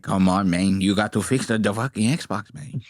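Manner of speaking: low-pitched mock Latino accent; heavy Latino accent. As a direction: plead in a put-on Latino accent. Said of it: "got this heavy ass Latino accent".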